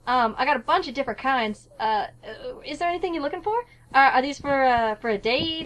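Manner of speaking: lightly voiced southern florist; southern shopkeeper sales patter; southern accent. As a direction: chat to customers in a southern accent. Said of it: "doing a southern accent for these characters".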